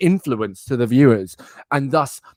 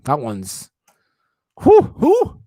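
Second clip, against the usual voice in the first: mock awe; 3 semitones higher, 4 dB louder, much slower than usual.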